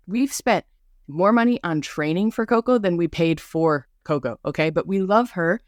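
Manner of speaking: normal talking voice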